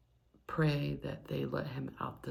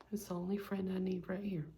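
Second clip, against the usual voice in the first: voiced, higher, stress on only; tender cat talk; 4 semitones higher, faster than usual. Real, not acted. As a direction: say only with a falling tone, fondly to the cat.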